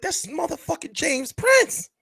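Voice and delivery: high, slow, awed exclamation; frozen in awe at seeing a legend; starstruck awe. Retold or imitated. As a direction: gasp it out, starstruck. Starstruck on seeing James Prince.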